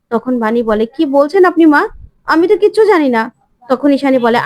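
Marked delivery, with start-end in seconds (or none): 1.0-3.2 bewildered denial. Acted. Bani bewildered, denying.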